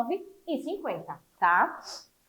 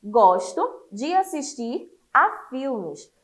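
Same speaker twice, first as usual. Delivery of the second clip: slow example reading; 2 semitones lower, much slower than usual. Shown as a demonstration. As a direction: read out slowly for the class. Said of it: "um exemplo no livro de vocês".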